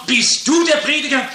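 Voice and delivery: retold question with a touch of surprise; mildly astonished. Old man asking the preacher who he is, mildly astonished. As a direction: ask it in mild astonishment, pitch lifted a little. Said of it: "Er sagt erstaunt".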